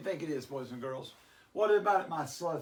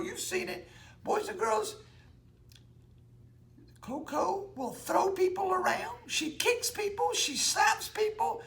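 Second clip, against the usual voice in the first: Shaggy. Acted. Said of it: "I'm Shaggy from Scooby-Doo".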